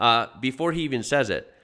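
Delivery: normal talking voice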